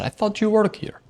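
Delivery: high, loud mock of the guy. The guy insisting the narrator works there, high mock voice. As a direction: whine the mix-up. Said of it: "He said".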